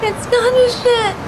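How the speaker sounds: weep through the words; tearful despair. Acted. Bereaved patient on the ledge after losing Jody, tearful despair.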